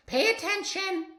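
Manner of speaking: stern Maestro scolding; snapping teacher. Acted. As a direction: snap at the pupil. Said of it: "snaps Maestro".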